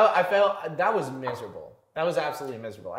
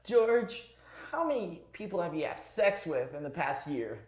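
anime voice; 2 semitones higher than usual. Acted. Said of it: "voice of an anime character".

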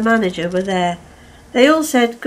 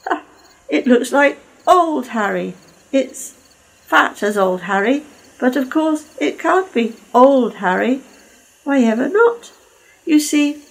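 mocking Caldy; 3 semitones higher than usual. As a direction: rub it in with glee.

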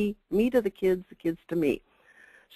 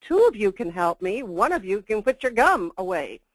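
pointed retort; 3 semitones higher, 5 dB louder than usual. Retold or imitated. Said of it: "I wanted to say".

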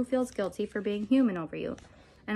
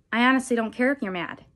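louder, mildly spiteful jab; 3 semitones higher, 7 dB louder than usual. A narrator's reading. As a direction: say it with a touch of spite. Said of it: "she says spitefully".

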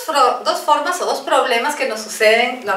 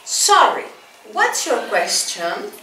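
slow, high model phrase; 2 semitones lower, slower than usual. Shown as a demonstration. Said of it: "Another expression".

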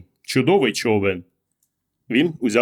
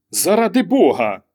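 higher-pitched, exasperated outcry; irritated exclamation; 6 semitones higher, 3 dB louder than usual. A narrator's reading. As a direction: exclaim it in sharp annoyance. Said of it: "роздратовано вигукнула вона". (роздратований вигук)

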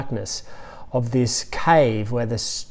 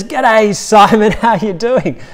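Phil Crocker greeting; 8 semitones higher, 6 dB louder than usual. Retold or imitated. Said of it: "And he says".

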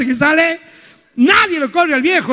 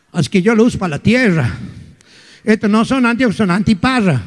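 low, lightly voiced little old lady; a hint of a doddering grandmother; 5 semitones lower than usual. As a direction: talk like a chatty grandma.

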